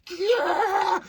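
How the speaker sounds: high, loud mock whoop; excited kids' cheer. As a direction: cheer like a hyped kid. Kids hyped going to city.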